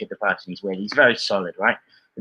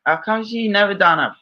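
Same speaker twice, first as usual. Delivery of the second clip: higher-pitched bad Aussie accent; clumsy mock Australian, pitched up; terrible Australian accent; 5 semitones higher than usual. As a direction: do a badly faked Australian accent. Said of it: "that's a terrible Australian accent".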